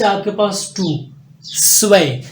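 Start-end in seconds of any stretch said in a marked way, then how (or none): 1.4-2.2 स्वे with the z sounding like s, ending in long e; German zwei. Shown as a demonstration. Teacher shows students German two, clear model. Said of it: "एस की आवाज़ दे रहा है".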